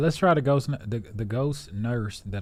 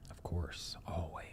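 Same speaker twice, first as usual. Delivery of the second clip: whisper; 5 semitones lower, 13 dB quieter than usual. Real, not acted. Hushed aside about United States.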